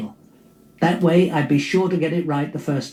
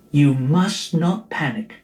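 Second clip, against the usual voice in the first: sweet reason; slower than usual. Acted. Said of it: "I was all sweet reason".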